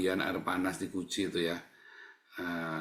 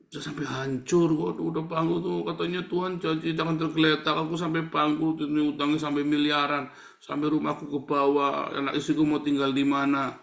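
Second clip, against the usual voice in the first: higher-pitched mock lament; acted complaint; 4 semitones higher, 4 dB louder than usual. Bankrupt believer complaining of God's promise, lamenting. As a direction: play a ruined believer protesting.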